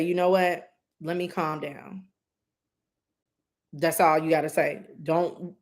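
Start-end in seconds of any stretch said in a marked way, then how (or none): 0.0-2.1 softly calming yourself down; a soft, steady reminder to calm down; calm self-talk. Shown as a demonstration. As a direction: say it gently to settle yourself. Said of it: "Just say".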